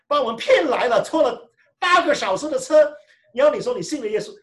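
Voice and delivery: half-mock outrage, rushing the words; indignant complaint.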